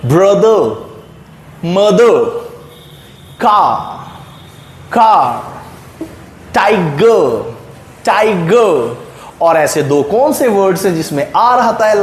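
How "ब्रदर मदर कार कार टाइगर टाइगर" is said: brother, mother, car, tiger with no r at the end; silent final r. Shown as a demonstration. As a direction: drop the final r in ब्रदर, मदर, कार, टाइगर: ब्रदर as brə-də, टाइगर as tai-gə. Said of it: "ऐसे करना है".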